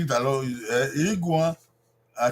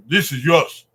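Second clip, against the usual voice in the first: put-on modelling a phrase to children; 5 dB louder than usual. Shown as a demonstration. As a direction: repeat "This is yours" as if handing food to a child. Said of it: "And you say".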